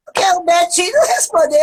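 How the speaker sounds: ordinary delivery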